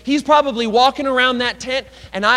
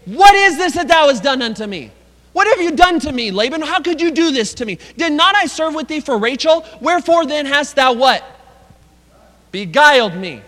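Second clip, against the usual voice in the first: indignant protest; 4 semitones higher, 4 dB louder than usual. Acted. Reading Jacob's protest to Laban.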